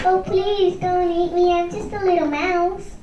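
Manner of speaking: pleading mouse. Shown as a demonstration. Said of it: "let her say it".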